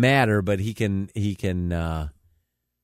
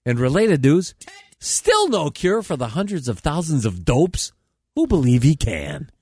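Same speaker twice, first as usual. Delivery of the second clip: comedy newscast with punchy phrasing; mock news read; 3 semitones higher than usual. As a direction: read it like a satirical anchor. Reads mock news items.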